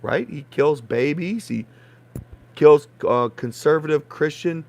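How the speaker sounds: loud, angry accusations; furious rant. Real, not acted. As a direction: shout the charges out in anger. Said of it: "I get furious".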